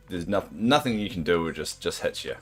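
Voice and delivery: ordinary talk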